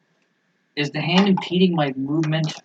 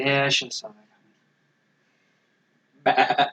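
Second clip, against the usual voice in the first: softly sheepish, a bit quiet; 5 dB quieter, much faster than usual. Acted. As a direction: say it like an embarrassed old man caught out. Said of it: "but it's a sheepish voice".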